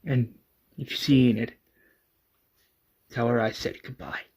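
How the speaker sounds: soft, subdued, halting confession; hushed, understated grief with long pauses; tearful apology. A narrator's reading. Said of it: "in tears".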